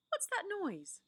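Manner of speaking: Lucy startled, voice leaping high; sudden alarm. Acted. Lucy hearing a strange noise, suddenly startled. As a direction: blurt it out as a noise startles you. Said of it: "said Lucy suddenly".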